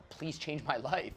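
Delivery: slow, soft plea; pleading client. Retold or imitated. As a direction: say it slowly like a plea. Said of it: "This guy just said".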